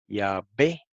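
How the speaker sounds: "Yahvé" leído con be: ia-be; pronunciación demostrada. Shown as a demonstration. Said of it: "así como lo voy a leer". ("Yahvé" dicho ia-be)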